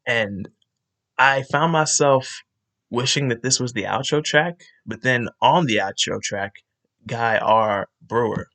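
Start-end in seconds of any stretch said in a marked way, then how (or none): 2.9-8.5 tipsy slurring. Real, not acted. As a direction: talk a little tipsy, words slurring. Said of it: "If I'm kinda slurring my words".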